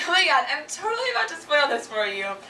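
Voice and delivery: imitating a gleeful friend about to spoil a movie; mock delight at spoiling; gleeful spoiler. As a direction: tease them with the spoiler, enjoying it. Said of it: "people who find joy in it".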